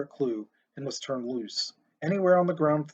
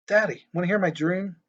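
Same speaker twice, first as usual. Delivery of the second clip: put-on light, eager child voice; sweet little girl asking; 4 semitones higher than usual. Little girl asks her dad.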